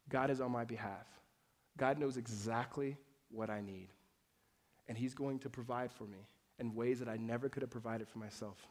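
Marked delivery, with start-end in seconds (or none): 1.8-8.6 quiet reassurance. Acted.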